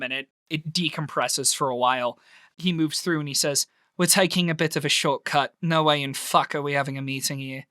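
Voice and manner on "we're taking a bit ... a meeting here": put-on Scottish accent. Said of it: "A completely changed accent".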